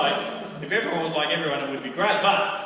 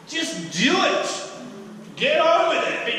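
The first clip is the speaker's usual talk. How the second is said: rising, louder push to act; urging call; 8 semitones higher, 4 dB louder, slower than usual. Real, not acted. Preacher urging the church, loud and rising. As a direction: fire them up to just do it.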